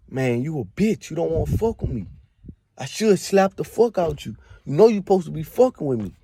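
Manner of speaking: mock drunk shouting at his friend; retold drunken yelling. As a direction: replay a drunk friend picking a fight. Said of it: "he's screaming this shit".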